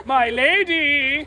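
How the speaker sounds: slow, stretched-out flirtation; coquettish. Acted. Manservant wooing his lady, slow coquettish greeting. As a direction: draw it out coyly. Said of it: "as coquettishly as he can".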